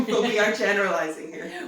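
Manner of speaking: laughing through the words. Real, not acted. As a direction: say it with a real laugh. Joking about comments, laughing.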